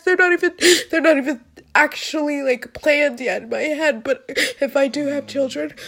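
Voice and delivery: laughing through tears; half laugh, half cry; real crying laughter. Real, not acted.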